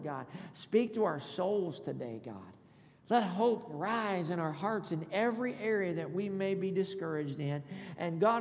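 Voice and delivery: earnest prayer in short phrases; pastor's prayer. Real, not acted. Pastor asking God to speak through him, earnest prayer. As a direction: pray it sincerely, leaning on each request. Leads prayer before preaching.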